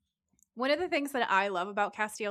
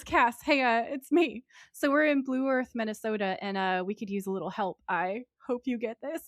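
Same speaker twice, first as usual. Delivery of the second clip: imitating Sam's voicemail; 4 semitones higher than usual. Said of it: "He says".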